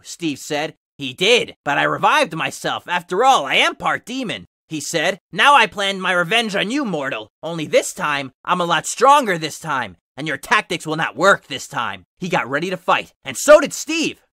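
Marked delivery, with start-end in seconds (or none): 1.0-12.0 lightly voiced demon taunt. Sonic.exe taunting Steve in the tomb, lightly voiced demon gloating.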